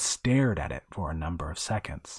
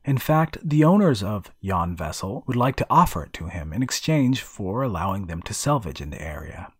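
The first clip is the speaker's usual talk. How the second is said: a hint of an eager young diver; raised, keen character voice; lightly voiced Woodrow. Woodrow's quoted offer.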